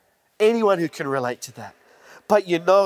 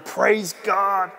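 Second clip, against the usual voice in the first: joyful shout of praise; 5 semitones higher, slower than usual. Retold or imitated. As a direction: shout it out like a healed man rejoicing. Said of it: "he's now yelling".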